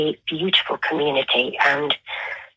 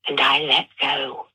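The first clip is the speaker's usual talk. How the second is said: measured, heartfelt poem reading with long pauses. Acted. Author reads her poem Storm to the radio host, measured and heartfelt. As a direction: let each image land, unhurried and sincere.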